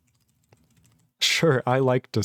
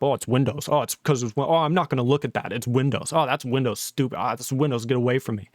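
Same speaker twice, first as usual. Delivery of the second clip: mocking whine; 3 semitones lower than usual. Mocking Linux fans' dismissive replies.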